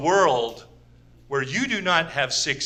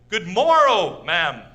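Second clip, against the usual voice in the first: olde English greeting; 4 dB louder, slower than usual. Retold or imitated. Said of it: "I actually said to a woman".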